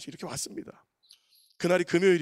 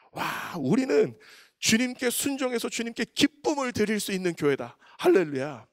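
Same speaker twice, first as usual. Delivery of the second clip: joyful proclamation; 6 semitones higher, 4 dB louder than usual. Acted. Sermon climax proclamation.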